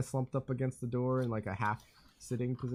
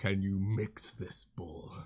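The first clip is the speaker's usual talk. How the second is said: whispering; 4 semitones lower, much slower than usual. Acted. GM voices dad handing bowl.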